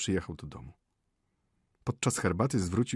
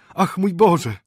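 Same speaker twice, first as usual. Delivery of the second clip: high, loud cry with BOŻE falling; excited exclamation; 10 semitones higher, 11 dB louder, slower than usual. Acted. Natalia reacting to Włodzio's arrival, high loud excited cry. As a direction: burst out in joyful alarm.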